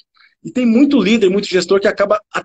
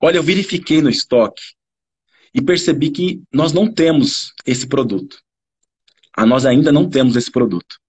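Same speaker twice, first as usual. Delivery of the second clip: measured, lower-pitched considerate bad news; correct service intonation; 4 semitones lower than usual. Shown as a demonstration. Attendant tells a customer the product is unavailable, considerately. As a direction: break the news gently, then offer an alternative. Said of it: "com a entonação certa".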